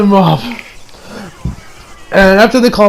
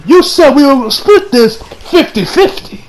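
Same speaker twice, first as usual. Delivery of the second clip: mock angry confrontation; 7 semitones higher than usual. Okuyasu confronts Shigechi.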